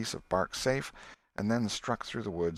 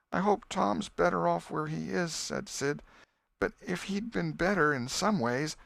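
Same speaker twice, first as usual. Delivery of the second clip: put-on boy voice; 10 semitones higher than usual. Sid voiced in story.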